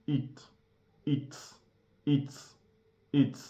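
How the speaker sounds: "eat" repeated with a long vowel; pronunciation drill; model eat. Shown as a demonstration. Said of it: "Like this".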